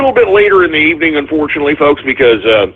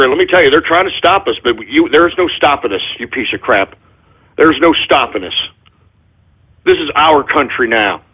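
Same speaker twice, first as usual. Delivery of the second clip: emotional; 3 semitones lower than usual. Real, not acted. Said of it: "my apologies".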